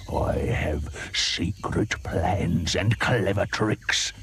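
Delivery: slow, low, scheming crocodile; sly croc. Acted. Crocodile teases the hippo about his plans, slow and low. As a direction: draw out the secret slowly. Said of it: "said the crocodile".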